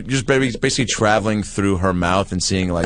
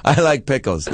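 pull string toy; 4 semitones higher than usual. Pretend. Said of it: "Pull the string".

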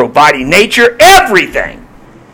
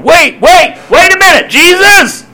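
higher, louder cry of wait wait; impatient crowd protest; 13 semitones higher, 4 dB louder than usual. Acted. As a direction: cut him off, impatient and urgent. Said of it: "people in the crowd saying".

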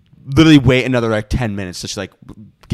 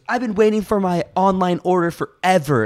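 higher-pitched impatient customer, lightly voiced; complaining Karen; 6 semitones higher than usual. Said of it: "like, Karen that came in".

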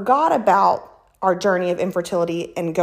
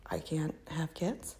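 very soft, low and slow; disheartened inner voice; 4 semitones lower, 16 dB quieter, slower than usual. Retold or imitated. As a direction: voice a crushing thought, almost to yourself. Voicing her own disheartening thought.

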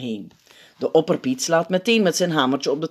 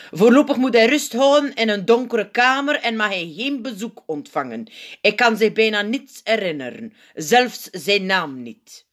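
higher-pitched grave doctor figure; zenuwpiet, ernstig; 6 semitones higher, 3 dB louder than usual. A narrator's reading. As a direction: announce the diagnosis to the hall. (ernstige, hogere zenuwpiet)

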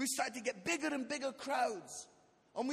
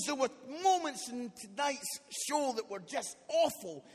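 stern rebuke; 5 dB louder than usual. Retold or imitated. Church leader scolds him after show.

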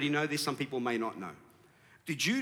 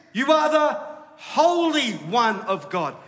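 high, loud declaration, drawn out; acted demon's shouted recognition; demonic outcry; 6 semitones higher, 6 dB louder, much slower than usual. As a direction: cry it out with a long stretch on holy. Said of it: "the demonic say to him".

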